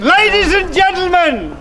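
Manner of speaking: town crier. Acted. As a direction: announce it to the crowd. Crier announces to crowd.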